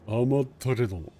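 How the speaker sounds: 甘ったれども echoed quickly in Japanese; repeating the Japanese line. Shown as a demonstration. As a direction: say 甘ったれども fast, copying the character. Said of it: "Notice that he says".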